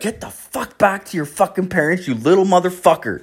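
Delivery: high, strained telling-off, held in; mock angry outburst. Man wishing he could tell off a kid, high mock fury. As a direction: play an exasperated imagined rant.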